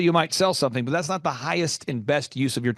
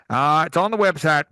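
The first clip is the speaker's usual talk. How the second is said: mock curt dad; 4 dB louder than usual. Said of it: "belligerently angry with people".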